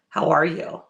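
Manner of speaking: "how ARE you" with weight on ARE; stress on ARE. Shown as a demonstration. Friend showing another reading of a text, stress on ARE. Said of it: "So many different ways".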